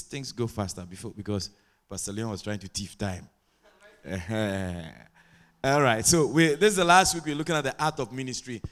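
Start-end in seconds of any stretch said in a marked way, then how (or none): 4.1-4.9 low, drawn-out chuckle; soft low laugh in the throat. Real, not acted. Preacher teasing about thieving time, low chuckle.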